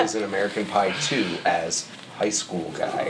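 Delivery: hushed low voice; whispering. Real, not acted. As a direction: speak under your breath. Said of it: "Why are you whispering?".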